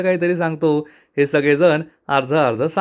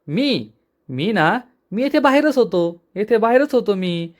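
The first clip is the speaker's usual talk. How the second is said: higher, flustered, stumbling over words; nervous stammer; 5 semitones higher than usual. Acted. Yashoda caught by his brothers, nervously stammering. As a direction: fumble for an excuse, caught out. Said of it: "Yashoda चांगलाच घाबरतो".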